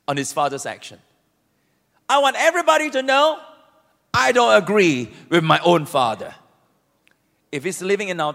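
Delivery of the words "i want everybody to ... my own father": loud public announcement; defiant declaration. Acted. Elder son defying his father before everyone, loud. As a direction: proclaim it to the whole crowd. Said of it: "publicly casting a vote of no confidence".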